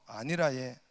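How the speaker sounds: light Gyeongsang accent; mild Gyeongsang 아니라예; polite Gyeongsang refusal; Gyeongsang dialect. Shown as a demonstration. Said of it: "경상도".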